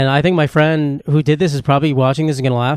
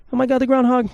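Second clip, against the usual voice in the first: much higher, squealing with delight; gleeful excitement; 10 semitones higher than usual. Pretend. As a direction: burst out thrilled like a kid on a holiday morning. Imagined waking up thrilled.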